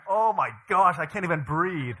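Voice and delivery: hammed-up dismay at being squeezed; mock panic. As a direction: overdramatic gasping complaint. Recounts squeezing into tight shirt.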